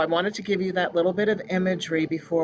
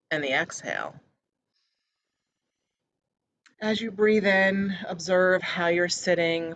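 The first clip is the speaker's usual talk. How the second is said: measured meditation-guide voice with pauses between phrases; calm, evenly paced meditation leading; guided meditation. Real, not acted. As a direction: guide listeners gently, phrase by phrase. Leads a meditation.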